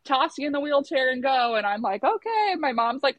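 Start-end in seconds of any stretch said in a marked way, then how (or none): 0.0-1.5 higher, lightly voiced kind nurse; retold easygoing comfort; nice, reassuring. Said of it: "so nice about it". 2.0-2.5 small, high okay; retold meek squeak; agreeable reply.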